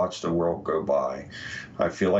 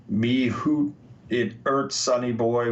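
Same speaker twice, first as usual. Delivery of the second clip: a light Scottish lilt on "Me hoot, it hurts", with hoot said like "hoot" rather than heart; Scottish accent; 4 semitones higher than usual. Retold or imitated. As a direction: read the quote as a mild Scottish-accented "Me hoot". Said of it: "was taken as a Scottish accented version".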